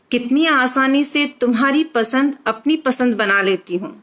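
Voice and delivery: measured, phrased verse reading with short pauses; expressive Hindi poem recitation; poetry recital. Acted. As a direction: recite it line by line, lifting each opening and letting the endings drop. Recites her own poem.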